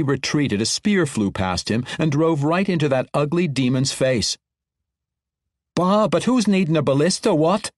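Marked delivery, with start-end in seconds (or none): 5.7-7.7 proud proclamation. Acted. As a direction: crow over the kill. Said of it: "Corinda Castleduck proclaimed".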